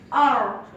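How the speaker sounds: R alone, drawn from a rolled tongue; rolled American R. Shown as a demonstration. Student repeating the American sound for the audience, rolled R. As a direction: roll the tongue and speak R. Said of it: "we roll our tongue and speak it R".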